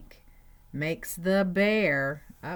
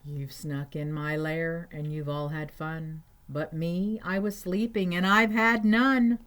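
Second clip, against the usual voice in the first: bear's complaint building from even to loud; mild storybook indignation, louder at the end; aggrieved bear; 4 dB louder than usual. Acted. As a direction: start restrained, rise to an indignant cry. Bear complains he missed the fun.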